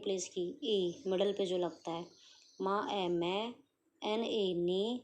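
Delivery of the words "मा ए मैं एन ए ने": जा drawn out slowly at the end; teacher blending manage; slow sounding out. Shown as a demonstration. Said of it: "दोबारा समझो".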